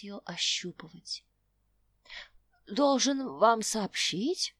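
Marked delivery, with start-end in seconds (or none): 2.7-4.5 put-on old prospector. Old man announces.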